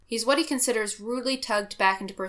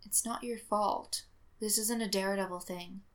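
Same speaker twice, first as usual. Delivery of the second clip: tender, weak; 5 dB quieter than usual. Acted.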